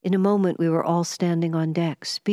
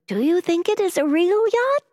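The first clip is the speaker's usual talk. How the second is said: a shivering woman's high, anxious asking, lightly acted; nervous whispered question; 14 semitones higher, 4 dB louder than usual. A narrator's reading. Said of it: "she whispered".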